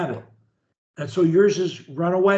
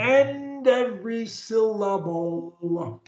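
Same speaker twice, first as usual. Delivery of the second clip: careful pronunciation; 3 dB quieter than usual. Shown as a demonstration. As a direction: draw out every word with full articulation. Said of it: "pronunciation of every word".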